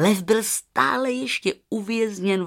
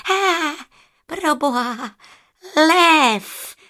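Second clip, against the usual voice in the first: high, alarmed jackal exclamation; high-pitched yelp of alarm; startled cry; 8 semitones higher, 4 dB louder, much slower than usual. A narrator's reading. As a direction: cry out in shock at the lion, ending loud. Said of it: "vykřikl".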